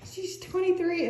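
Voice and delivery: high, laugh-filled voice; real laughter in the voice. Real, not acted. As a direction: still giggling. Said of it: "It is so funny".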